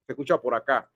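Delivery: distant, boxed-in voice off the microphone; away from the mic. Shown as a demonstration. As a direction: turn away from the mic as you say it. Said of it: "¿Se dan cuenta la diferencia?".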